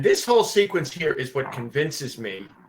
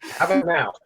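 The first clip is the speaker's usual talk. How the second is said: robotic glitchy audio; 3 semitones higher than usual. Real, not acted. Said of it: "you still sound like a robot".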